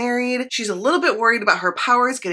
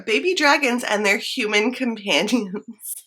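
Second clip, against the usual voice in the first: losing a straight face on the last words; trying to say it seriously and cracking up; real suppressed laughter; 3 semitones higher than usual. Real, not acted. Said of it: "can't even say that without, like, laughing".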